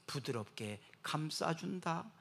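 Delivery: slow, soft and tender; soothing preacher voice. Acted. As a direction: say it like an embrace. Tender repeat of definition.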